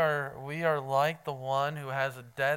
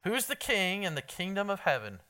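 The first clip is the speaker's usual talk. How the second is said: repeated louder; 2 semitones higher than usual. Real, not acted. Preacher repeating his question to a silent room, louder. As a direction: push the question harder the second time. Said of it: "Anybody know?".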